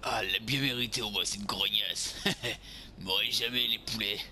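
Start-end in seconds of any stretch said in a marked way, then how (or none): 2.2-3.0 short breath-heavy snicker. Pretend. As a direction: snicker to yourself. Laughs after the attack.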